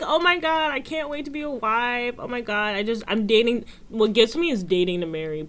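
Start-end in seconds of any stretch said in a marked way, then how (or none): 0.0-3.7 high, fast giddy voice; mocking gushing bride-to-be. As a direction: gush like an excited fiancée. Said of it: "People be like".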